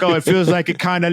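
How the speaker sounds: British car reviewer, lightly mocked. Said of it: "they're always British for some reason".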